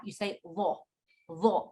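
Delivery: lo with a thick, rounded, heavy th; thick rounded letter. Shown as a demonstration. Teacher showing her own thick lo. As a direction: round the mouth on lo. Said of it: "It's got to be thick and rounded".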